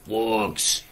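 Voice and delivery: slow, loud warlord command; orc war cry. Pretend. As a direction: bellow the charge like an orc chief.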